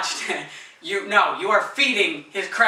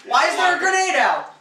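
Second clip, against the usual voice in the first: laughing; 9 semitones higher than usual. Real, not acted. Laughing at quote.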